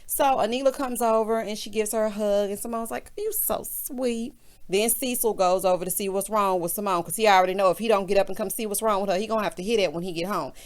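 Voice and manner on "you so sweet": soft, drawn-out cooing quote; mock tender. Simone to Anila after a hug, softly gushing. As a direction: imitate a touched friend, slowly and softly.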